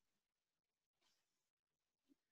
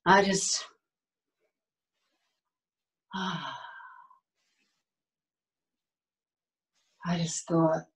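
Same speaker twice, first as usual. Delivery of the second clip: low, measured, with long pauses; calm recollection; 7 semitones lower than usual. Acted. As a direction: recall a hopeful morning calmly, unhurried. Monologue opening, recalling a hopeful morning.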